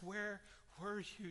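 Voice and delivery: slow, quiet, aching question; grieving plea. Retold or imitated. Sister beating on Jesus's chest, slow quiet plea. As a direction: drag it out like a sister in grief.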